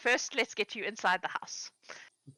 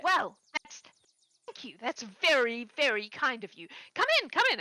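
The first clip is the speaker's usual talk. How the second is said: 1 flustered eager hostess; 3 semitones higher than usual. Acted. Gertrude thanks and invites in.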